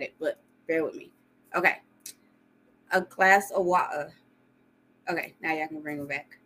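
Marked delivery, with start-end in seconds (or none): 2.9-4.1 British accent. Shown as a demonstration. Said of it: "give y'all my British accent".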